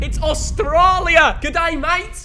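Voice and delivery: hammed-up Aussie-Cockney bloke; Cockney accent. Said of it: "why are you doing a Cockney accent".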